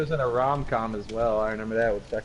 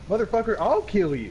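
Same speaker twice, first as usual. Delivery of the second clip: angry threat; 8 semitones higher than usual. Retold or imitated. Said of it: "And he's like".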